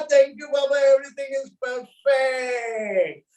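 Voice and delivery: laughing cheer. Shown as a demonstration. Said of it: "pick up the thermometer and say".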